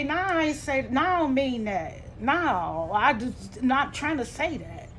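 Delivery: drawn-out, dismissive imitation of mama; slow, stretched-out denial, mimicking her; imitating mother's denial. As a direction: brush it off like mama does. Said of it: "the way she was saying it".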